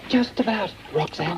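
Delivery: breathless after the climb; out of breath. Acted. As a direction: puff it out like you rushed back. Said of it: "Oh, you sound quite out of breath".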